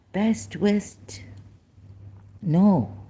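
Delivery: whispered under breath; whispered aside. Real, not acted. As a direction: murmur it to yourself. Muttered aside while reading.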